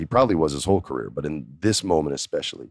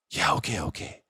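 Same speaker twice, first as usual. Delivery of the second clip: breathless; 2 semitones higher, 8 dB quieter than usual. Retold or imitated. Fred gasps, struck.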